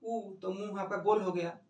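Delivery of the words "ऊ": ऊ with lips rounded tight; long rounded ऊ; vowel oo. Shown as a demonstration. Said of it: "जैसे ऊ का उच्चारण कर रहे हैं".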